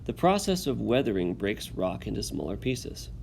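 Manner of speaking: steady classroom read-aloud. Acted. Teacher reads text aloud.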